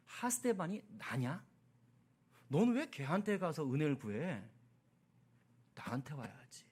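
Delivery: lightly voiced divine reproach; God's inner voice. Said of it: "마음속 음성으로".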